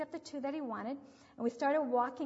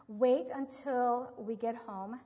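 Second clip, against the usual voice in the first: slow, louder stern parent threat; parent's threat; 6 dB louder, much slower than usual. Retold or imitated. Mother recalling her parents' threat, slow louder stern warning. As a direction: drag it out as a warning. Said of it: "That was a big one at my house".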